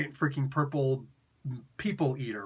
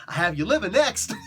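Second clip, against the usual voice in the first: mock pained threat; 2 semitones higher, 5 dB louder than usual. Injured Galactus threatening through pain.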